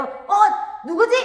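loud, high startled cry. A narrator's reading. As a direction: jump as if grabbed from behind. Grabbed from behind while climbing. (화들짝 놀란 목소리)

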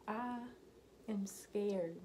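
whispered admission of being scared. Real, not acted. Whispering to viewers that she's scared. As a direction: breathe it out with no voice. Admits fear, voiced without tone.

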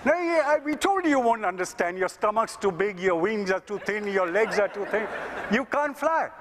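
high, condescending explanation; mocking scientists. Scientists mocking the woman, high and condescending. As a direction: explain it down to her. Scientists tell her she can't fly.

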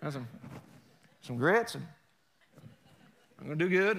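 lightly put-on Southern US twang; Southern accent. Shown as a demonstration. Preacher demonstrating talk from the South, Southern accent. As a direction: imitate a Southerner in short bits. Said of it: "they talk like this a little bit".

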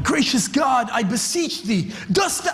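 mock pompous old-English prayer, high and drawn out; a churchgoer showing off with a grand, lofty prayer; pompous King James prayer. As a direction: ham up a stiff formal prayer. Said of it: "And they're like".

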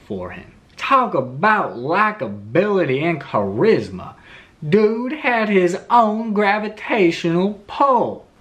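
put-on Southern accent. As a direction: tell it like a Southern storyteller. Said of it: "it just felt right to do it in a Southern accent".

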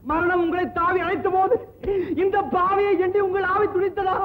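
sobbing question to a dead father; tearful lament. Acted. Son asking his dead father, weeping. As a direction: let the grief crack through.

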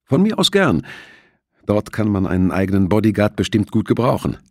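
high, light laughing answer; laughing reply. A narrator's reading. Carol answers Thompson's lunch invitation, laughing. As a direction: toss it back with a laugh. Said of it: "lachte Carol".

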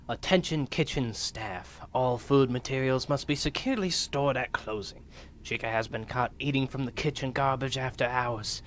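a hint of a stiff corporate memo read; management voice. Gamer reading the memo as bored management. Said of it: "That's how management sounds".

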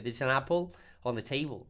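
There is an apple on the table run together into one blur; said very fast. Shown as a demonstration. Profesora muestra cómo suena la frase dicha rápido, todo junto. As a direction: rush it so the words fuse. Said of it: "si uno lo dice muy rápido".

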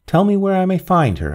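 "Tell me" said with insistence, no pleading; firm demand. A narrator's reading. Narrator pressing the grave robber for the girl's whereabouts, firm demand. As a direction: press him for an answer, firm and direct. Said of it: "I demanded".

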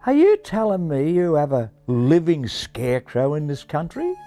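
high, incredulous Australian question; dumbstruck Australian. Acted. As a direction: ask in Aussie disbelief. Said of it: "quite dumbstruck".

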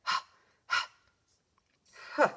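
isolated breathy h sounds, huh huh huh; first sound of hammer. Shown as a demonstration. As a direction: puff out the h sound of hammer on its own. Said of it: "Hammer starts like this".

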